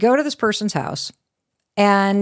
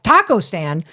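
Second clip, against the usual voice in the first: higher, louder, fast panicked protest; a flustered mom objecting to the taco stand; frantic mom; 6 semitones higher, 4 dB louder than usual. Retold or imitated. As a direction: protest in a rush of alarm. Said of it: "I'm like".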